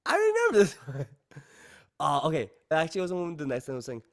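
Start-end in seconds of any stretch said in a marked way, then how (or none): 0.0-1.1 very high and loud, laughing with delight; thrilled squeal. Real, not acted.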